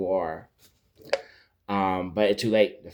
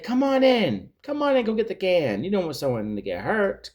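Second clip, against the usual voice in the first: much higher cartoon voice calling out; hammerhead shark voice; 10 semitones higher than usual. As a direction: call out high like a cartoon shark. Hammerhead coaxes Deep in.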